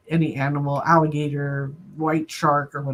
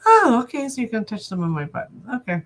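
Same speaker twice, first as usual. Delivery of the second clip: amused mock surrender; 5 semitones higher than usual. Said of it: "I go like".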